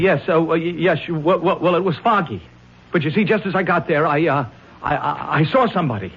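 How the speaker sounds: halting, flustered stammer; rattled witness tripping over his words; nervous stammer. Acted. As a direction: stumble over every word, nervous.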